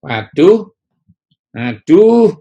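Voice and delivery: loud, high fretful grumbling; mock grumbling 'waduh, aduh'; grumbling complaint. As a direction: whine like a worried grumbler. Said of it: "itu bersungut-sungut".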